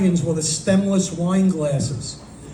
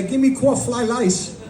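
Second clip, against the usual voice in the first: put-on higher, slow caricatured Chinese accent; mock Chinese accent; 4 semitones higher than usual. Comic answering the stranger in Publix, mock Chinese accent. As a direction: imitate a broad Chinese accent, pitched up.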